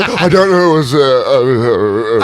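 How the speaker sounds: slow, halting string of uhs; bumbling answer. Acted. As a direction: act out fumbling for an answer. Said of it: "Then you bumble through the answer".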